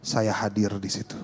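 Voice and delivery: low, slow reassurance; gently measured voice of God; calm divine reply. Acted. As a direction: say it low and unhurried, as a promise. Voicing God's calm reply.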